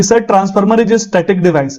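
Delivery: very slow, each word set apart for students to copy; slow model answer. Shown as a demonstration. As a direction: dictate it word by word. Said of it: "आप फटाक से बोलेंगे".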